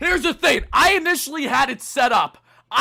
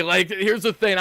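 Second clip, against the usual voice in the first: ordinary talk, nothing marked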